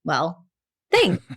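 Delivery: deflated. Retold or imitated. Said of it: "left there going".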